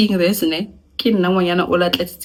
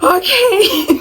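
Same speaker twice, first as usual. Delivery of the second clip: high timid okay; meek okay to sister-in-law; 7 dB louder than usual. Retold or imitated. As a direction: give in meekly. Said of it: "I'm like".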